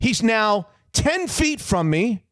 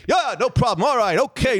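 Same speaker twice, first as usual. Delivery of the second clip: Rodney Dangerfield mumbling; 4 semitones higher than usual. Retold or imitated. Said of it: "No, he's still saying it".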